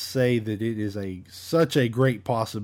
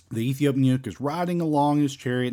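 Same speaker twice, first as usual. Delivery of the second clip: usual speaking voice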